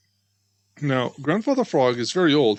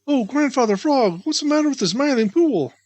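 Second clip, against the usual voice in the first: high, louder call; shouted, out of breath; 9 semitones higher, 3 dB louder than usual. A narrator's reading. Two friends arriving breathless at the frog, shouting. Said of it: "they shouted as they came up quite out of breath".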